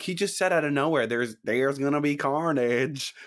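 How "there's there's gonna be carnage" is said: slow, stretched Southern misquote; put-on Southern accent. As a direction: draw the line out with a mock Southern twang. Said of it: "he doesn't say in a Southern accent".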